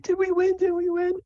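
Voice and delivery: very high, eager falsetto question; so excited Sable. Acted. Sable asks after handing over mushrooms, so excited. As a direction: squeak it hopefully, bursting to know. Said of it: "she's so excited".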